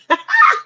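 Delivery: a sudden squealing laugh; high squeal of laughter. Real, not acted. Laughing at herself in the chicken coop story, squealing.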